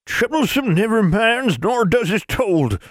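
high, very slow crone; ancient crone voice. A narrator's reading. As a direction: creak it out like an ancient witch. Crone speaks.

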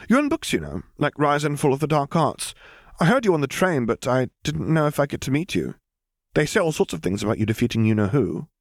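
eager schoolgirl. Acted. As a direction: gush like a bookish girl meeting a celebrity. Hermione voiced by narrator.

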